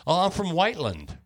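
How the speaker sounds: Appalachian twang. Retold or imitated. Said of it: "talk like they're from the Appalachian Mountains".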